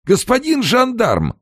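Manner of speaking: high, loud panicked call; wailing cry. A narrator's reading. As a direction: shriek for the gendarme. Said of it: "возопил Амерс".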